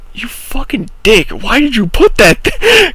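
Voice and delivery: mock angry. Angry at friend over bag.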